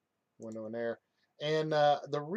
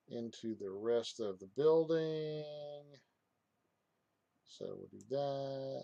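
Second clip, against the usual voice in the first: stretched last words, held on a level note; odd drawn-out talk; 2 semitones higher than usual. Real, not acted. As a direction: drag out each phrase ending absent-mindedly. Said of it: "I don't know why I'm talking like that".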